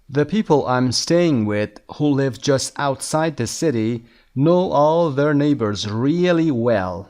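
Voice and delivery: very slow, deliberate English read-aloud; measured dictation pace; slow lesson reading. Shown as a demonstration. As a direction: read it out slowly for language learners. Reads lesson text aloud.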